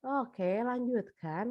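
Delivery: lazy dismissive okay, drawn out slowly; acuh tak acuh. Retold or imitated. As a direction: brush it off like you don't care. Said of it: "tapi ternyata kitanya". (guru menanggapi asal-asalan, pelan dan malas)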